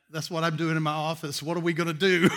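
laughing through the question; a real laugh breaking in; rueful laugh at himself. Real, not acted. Laughing while retelling text.

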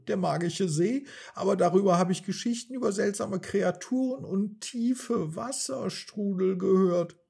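monkey alarmed about the magic lake; worried cry. A narrator's reading. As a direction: rush the fears out, alarmed. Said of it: "rief er besorgt".

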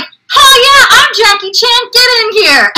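high, hearty mock enthusiasm; gung-ho playing along. Actor plays along as Jackie Chan for fans, gung-ho call. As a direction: call them over, gamely owning it.

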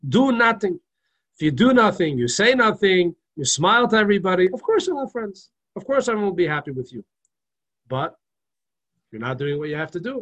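lightly voiced Russian accent, preaching it; a hint of a Russian accent. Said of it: "He said in this Russian accent".

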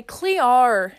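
attempted Australian vowel on "Clear"; Australian accent. Shown as a demonstration. Showing the one word they can say, Australian accent. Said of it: "I could say Clear".

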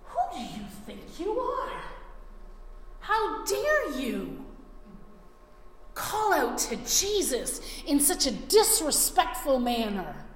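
scornful crowd scolding the beggar; rebuking. Retold or imitated. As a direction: put him in his place, mildly acted. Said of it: "So they rebuked him".

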